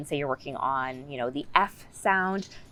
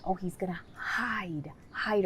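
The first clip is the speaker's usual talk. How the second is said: playful demo; 3 semitones higher, 7 dB quieter than usual. Shown as a demonstration. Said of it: "I would say on every page".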